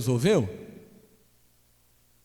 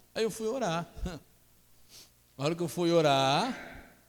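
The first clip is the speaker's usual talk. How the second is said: ordinary talk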